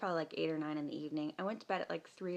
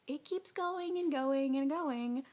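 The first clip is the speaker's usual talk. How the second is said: high, loud and stretched out; slow, raised-pitch comic emphasis; drawn-out exaggeration; 9 semitones higher, 5 dB louder, slower than usual. Real, not acted. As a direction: drag out each repeated "going" as if endless. Exaggerating the endless flow of water.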